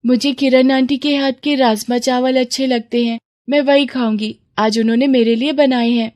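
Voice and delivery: lightly voiced child; a hint of childish insistence; little girl. Daughter wanting the neighbour's food, mildly insistent child.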